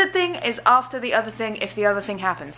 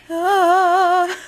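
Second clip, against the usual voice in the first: surprised squeal; 11 semitones higher, 8 dB louder than usual. Real, not acted. Reacting to cat.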